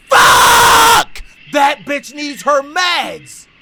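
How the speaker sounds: long, high scream of alarm; alarmed shout. Real, not acted. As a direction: scream it out loud, dragging the words. Sudden alarm over forgotten meds.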